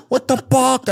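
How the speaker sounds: squeaky high imitated shock; amused imitation of a baffled cry; mock disbelief. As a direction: play the startled friend, voice jumping way up. Retelling friend's reaction to ladder prank.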